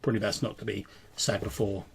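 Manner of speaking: lightly stern servant. Acted. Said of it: "he says".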